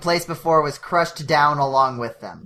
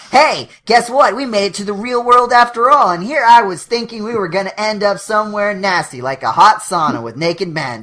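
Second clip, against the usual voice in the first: loud, fast and excited; excited glove voice; 4 semitones higher, 5 dB louder than usual. Acted. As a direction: blurt it out with glee.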